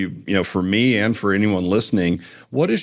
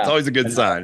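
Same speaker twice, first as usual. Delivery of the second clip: laughing. Real, not acted. Laughing at podcast start.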